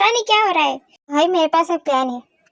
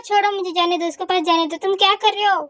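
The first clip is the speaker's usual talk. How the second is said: raised, higher-pitched cry of protest; alarmed protest; 4 semitones higher than usual. Acted. Girl demanding to reach her friend, alarmed protest. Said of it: "ये हुबी चिल्ला रही है ना".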